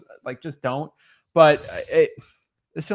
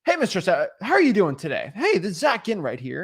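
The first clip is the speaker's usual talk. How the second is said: fake, higher-pitched sales greeting; salesy voice; 4 semitones higher than usual. Shown as a demonstration. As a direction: lay on the salesperson's singsong inflection. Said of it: "that's like a salesy type thing".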